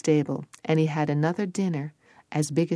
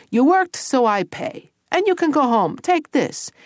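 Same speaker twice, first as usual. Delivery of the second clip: higher-pitched, emphatic ogre boss; animated storybook ogre, pitched up; ogre paymaster; 8 semitones higher, 3 dB louder than usual. Acted. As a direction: hand over payment with ceremony.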